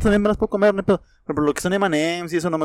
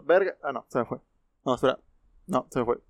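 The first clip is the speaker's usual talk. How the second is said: about to sneeze, then it fades; sneeze coming on; 7 dB quieter than usual. Real, not acted. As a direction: talk through a failed sneeze. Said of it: "Ay, voy a estornudar".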